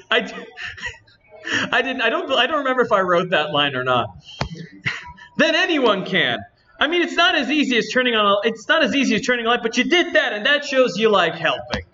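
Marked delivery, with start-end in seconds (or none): 5.3-11.8 lightly voiced indignant game girl, slightly lifted; a hint of a peeved anime-game heroine; Natsuki voice. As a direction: complain to the audience in a mild character voice. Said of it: "doing the stupid voice".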